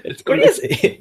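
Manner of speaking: squeaky, laughing high pitch; really high voice. Shown as a demonstration. Guest mocking their own voice jump, really high and laughing. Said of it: "my voice just went really high there".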